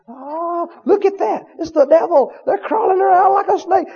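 lightly voiced gasping, impressed crowd; a hint of wide-eyed awe; mocking awed believers. Preacher mocking people impressed by the devil, mild awed voice. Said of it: "people go".

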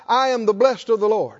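firm, emphatic declaration; out loud, like you mean it. Shown as a demonstration. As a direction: declare it for the congregation to repeat. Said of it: "you need to say it out loud".

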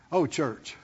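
normal talking voice

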